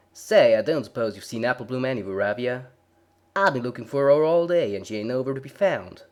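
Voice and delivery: loud, fast country twang; fretting farm sister; worried country girl. A narrator's reading. Applejack voiced, worried.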